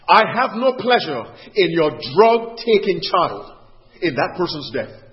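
slow, emphatic scriptural declaration; measured pulpit proclamation in God's voice; preaching God's words. Acted. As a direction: declaim it with deliberate pauses.

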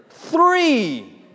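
high, loud, drawn-out shout; imitated little boy's shriek; child's scream. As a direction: blurt the number as a screaming kid. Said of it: "he screams out".

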